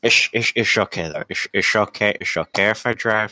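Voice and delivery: slurred, badly faked drunk voice; hammed-up drunk trying to sound sober; fake drunk. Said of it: "You're awful at faking being drunk".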